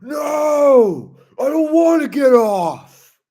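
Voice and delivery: high, loud bratty wail; Waffle Pone. Acted. Imitating a kid refusing mom's order, wailing tantrum. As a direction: yell it as a kid's tantrum. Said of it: "do my Waffle Pone impersonation".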